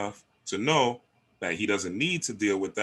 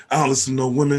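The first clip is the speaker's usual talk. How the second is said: loud, high, hammed-up tough guy; mock angry man; 5 semitones higher, 6 dB louder, much faster than usual. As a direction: play the macho man who won't be told, pitched high. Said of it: "he's not just".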